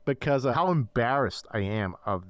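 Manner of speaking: muffled behind hands; talking through hands over face. Real, not acted. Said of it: "I have my hands over my face at the moment".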